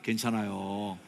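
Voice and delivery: mildly soothing, drawn-out comfort; gentle reassurance. Shown as a demonstration. Preacher leading congregation in comforting a neighbour, gentle reassurance. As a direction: reassure them kindly. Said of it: "자, 시작".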